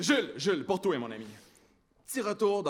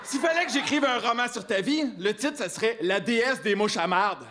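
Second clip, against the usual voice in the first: shouting; 4 semitones higher, 4 dB louder than usual. Acted. Roast delivered in loud shouts.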